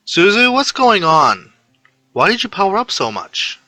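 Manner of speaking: put-on high, worried girl's voice on the phone; a high-pitched girl asking what is wrong. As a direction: raise the pitch and sound alarmed.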